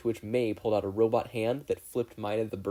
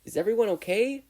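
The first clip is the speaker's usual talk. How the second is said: higher, louder call through smoke; 12 semitones higher, 7 dB louder than usual. A narrator's reading. Mina checks on everyone after the blast, calling out.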